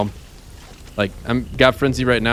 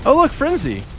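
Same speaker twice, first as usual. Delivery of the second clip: excited; 12 semitones higher than usual. Real, not acted. Excited game buff.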